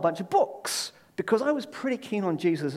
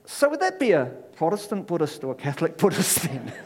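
mild, amateur Irish lilt; attempted Irish accent. Pub-goers pressing the Buddhist in a joke, attempted Irish accent. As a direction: put on a rough Irish accent for the punchline. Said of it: "I can't do an Irish accent".

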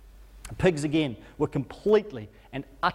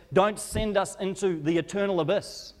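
demons begging; 6 semitones higher than usual. Acted. Demons begging Jesus not to torment them, high desperate pleading. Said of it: "start begging with Jesus".

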